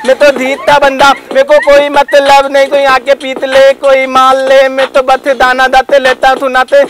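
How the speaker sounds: a comic lisping rapper chatting up madam. Acted. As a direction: lisp every s and r like a cute totla guy. (तोतला रैपर)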